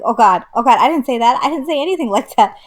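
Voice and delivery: loud, pleading backpedal; hammed-up frantic self-defence; mock panicked denial. Acts out frantic denial to mom.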